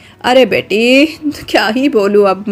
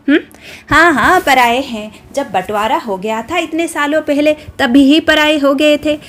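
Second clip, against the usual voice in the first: angry taunting. Acted. Shashirekha taunting Kalavati before the villagers, angry raised jeering. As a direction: jeer at them so the whole village hears. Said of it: "बहुत जोर से चिल्लाकर बात".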